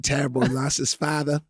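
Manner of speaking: mean it this time, gently; sincere. Pretend. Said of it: "I truly mean it".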